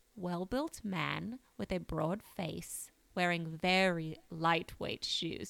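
bad, fake, put-on British accent. Quoting a witness statement from a police report: terrible British accent. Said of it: "I have to do a terrible British accent".

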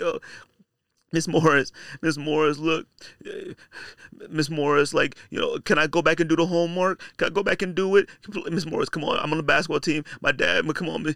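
choked-up, fake tearful, rambling voice. Retelling begging a teacher for homework credit: mock tearful pleading. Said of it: "you start manufacturing tears".

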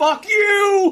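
very high, screamed freakout. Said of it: "he just freaks out and goes".

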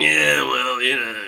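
slow, grumbling, grumbled delivery. Voicing a character ignored during an argument: Giles grumbling. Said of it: "grumbles in the way you've known Giles".

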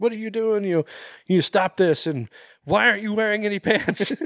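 yelling, very high. Retelling a scene where one man yells at another; retelling a yell. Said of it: "like yelling at him".

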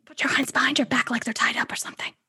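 fast, rushed, hushed whisper. Telling the group to act like prisoners: whispering. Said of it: "she whispers to the rest of the group".

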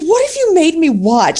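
high, incredulous tone with real disbelief. Retelling a husband's reaction to a chosen horror movie: imitating husband's incredulous tone. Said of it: "real incredulous".

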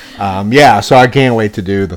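ordinary talk

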